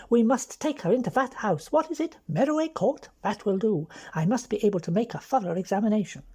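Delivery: bustle in as the doctor, hammed up; mock officious doctor. Frankie imitating George as a bossy doctor, mock officious.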